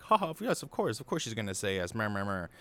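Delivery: mocking villagers. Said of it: "everybody laughs".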